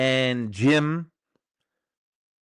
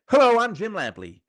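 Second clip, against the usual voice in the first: higher imitation of a veteran boxing broadcaster; mock TV boxing commentator greeting; Jim Lampley impression; 8 semitones higher, 4 dB louder than usual. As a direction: put on the old TV fight caller's signature voice, pitched up. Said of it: "he's got that distinct voice".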